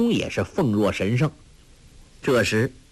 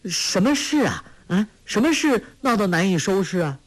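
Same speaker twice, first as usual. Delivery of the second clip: put-on high, insistent girl's question; can't hold back; 9 semitones higher than usual. Curious girl pressing the monk for the scandal, high. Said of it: "黄蓉再也忍不住问道".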